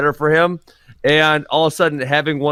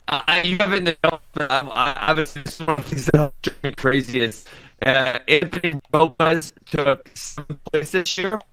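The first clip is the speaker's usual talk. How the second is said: robotic glitchy connection. Real, not acted. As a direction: sounds like a robot on a bad line. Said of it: "Ben, you kinda sound like a robot".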